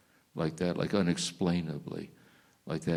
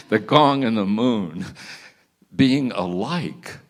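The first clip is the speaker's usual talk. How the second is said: slow, laughing words, barely holding it together; laughing through it; 4 semitones higher, 7 dB louder, slower than usual. Real, not acted. Teller laughing at his own monk joke. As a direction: crack up while trying to finish.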